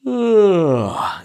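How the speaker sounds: high yawn sliding down; loud falling yawn; yawn sound. Shown as a demonstration. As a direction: demo yawn, descending. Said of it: "yawn like that".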